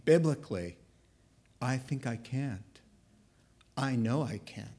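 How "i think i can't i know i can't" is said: low, soft, halting resignation; defeated train. Acted. The train admits it can't, defeated. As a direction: let it sag, deliberate and defeated. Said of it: "the train should be saying".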